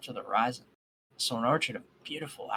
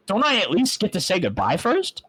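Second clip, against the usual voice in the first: pleading, a little louder and higher; voice cracking; 6 semitones higher, 6 dB louder than usual. Acted. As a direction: hold back tears as you ask. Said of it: "my voice cracking slightly".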